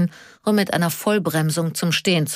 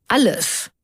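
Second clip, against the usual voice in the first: sighed-out, higher word falling away; loud sigh; 6 semitones higher than usual. A narrator's reading. Karl answers his friend's question, sighing. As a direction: say it on a weary sigh. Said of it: "Karl seufzte laut".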